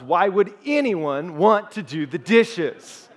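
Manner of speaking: put-on slow, drawn-out baffled boyfriend; baffled lazy guy. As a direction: play him as genuinely puzzled, slowly.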